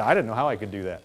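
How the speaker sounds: low, hushed wonder; soft amazed murmur. Retold or imitated. Preacher voicing a believer, low hushed amazement. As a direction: breathe it out, looking back amazed. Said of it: "you say".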